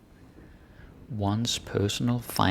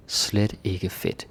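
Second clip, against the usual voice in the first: slow example read; slower than usual. Shown as a demonstration. Reads example slowly.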